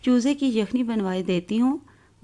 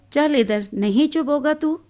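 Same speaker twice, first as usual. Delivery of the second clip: angry mother; 4 semitones higher than usual. Acted. Mother drags crying child away.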